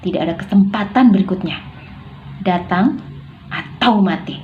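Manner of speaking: mild menace, firm and measured; threatening. Shown as a demonstration. Novel villain warning a young man at his parents' grave, threatening. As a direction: read it as a stern threat with punched words. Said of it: "contoh intonasi mengancam".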